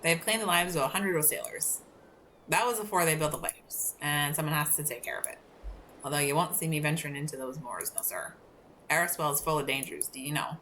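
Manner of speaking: put-on lighthouse keeper with a Scottish accent; Scottish-accented warning. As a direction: read it with a light Scottish lilt. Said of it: "better with a Scottish accent".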